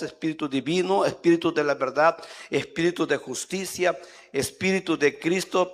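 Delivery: a preacher blessing his listeners in prayer. Acted. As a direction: call on the Spirit with rising fervor. Prays over the audience.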